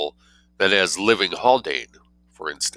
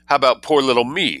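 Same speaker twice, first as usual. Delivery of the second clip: modest; 6 semitones higher, 3 dB louder than usual. Acted. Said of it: "said the angel modestly".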